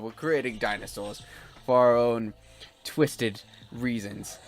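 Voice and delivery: evil scientist. Acted. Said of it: "I'm supposed to be an evil genius. Evil scientist".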